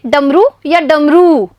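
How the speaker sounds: डमरू first with short रु then with long रू, slow; short versus long u. Shown as a demonstration. Teacher contrasting short and long vowel for children. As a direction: contrast the two endings of डमरू. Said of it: "इन दोनों का उच्चारण देखिए".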